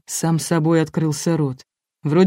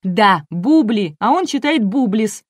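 возмущённо, повысив голос; завопить с обидой, громче к началу; вопль; 5 semitones higher, 5 dB louder, slower than usual. A narrator's reading. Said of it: "завопила Энн". (сдержанный возмущённый вопль)

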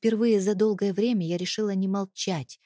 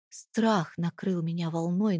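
usual speaking voice

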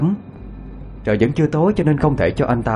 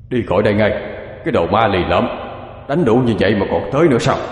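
put-on yelling old spirit; faster than usual. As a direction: bark the ghost away from the house. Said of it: "lão ta hét lên".

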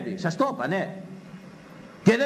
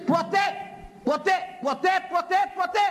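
ποτέ repeated, rising high each time; insistent repeated never; 11 semitones higher than usual. Acted. Preacher scolding parents, insisting ποτέ over and over. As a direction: hammer ποτέ again and again, pitched up.

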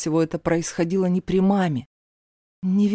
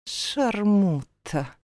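slow, hushed insult through teeth; spat through teeth; much slower than usual. Acted. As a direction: grind the insult out slowly. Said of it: "процедила Латифа".

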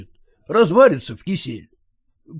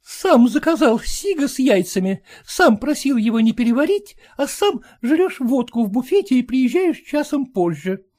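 high, needling scolding wife; nagging wife; 10 semitones higher than usual. Acted. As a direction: keep needling him, high.

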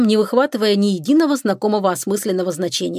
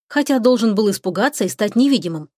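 ordinary delivery, nothing marked

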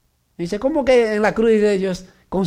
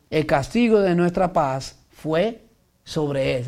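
solemn reading of Isaiah, steady and measured; scripture reading. Acted. Preacher reads Isaiah fifty-three to the congregation, solemn. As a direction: read the prophecy with weight.

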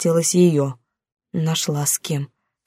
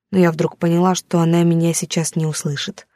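ordinary delivery, nothing marked

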